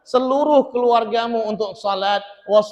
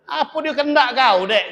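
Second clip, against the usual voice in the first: grumpy husband; 5 semitones higher than usual. Retold or imitated. Husband woken up grumbling at wife, irritated. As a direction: snap at her, just woken. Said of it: "kata dia".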